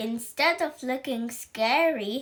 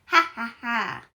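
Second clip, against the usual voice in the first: mocking laughter; 4 dB louder than usual. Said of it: "howled with laughter".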